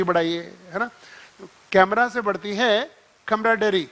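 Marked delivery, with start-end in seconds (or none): 1.4-3.9 slow, spelled-out memory line; slow mnemonic. Shown as a demonstration. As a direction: drill the mnemonic slowly. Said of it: "तो लिख दो".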